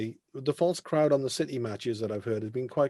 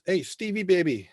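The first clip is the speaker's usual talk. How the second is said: higher, drawn-out hearty phone greeting; Sam Hammam; 5 semitones higher than usual. Retold or imitated. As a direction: lightly imitate an effusive club boss. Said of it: "Sam Hammam rang me one day".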